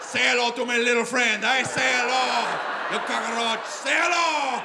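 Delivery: loud gangster-film impression, drawn-out vowels; Scarface. Comic playing Scarface after smuggling drugs, hammed-up gangster bellow. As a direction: bellow it like a movie drug lord. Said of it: "I'm Scarface!".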